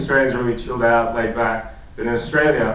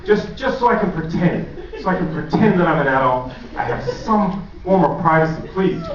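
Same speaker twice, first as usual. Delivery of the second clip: mock pleading; 4 semitones higher than usual. Pleading with mom.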